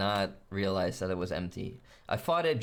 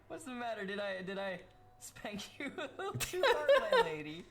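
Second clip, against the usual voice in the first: 1 taunting. Acted. Mock taunting a victim.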